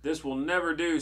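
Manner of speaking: lightly voiced disapproving witch; storybook witch Delia. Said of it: "said Delia".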